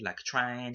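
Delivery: trying said as tryin', no final G; tryin' with a clipped ending; dropped G. Shown as a demonstration. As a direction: drop the G in trying. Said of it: "but you don't use the G".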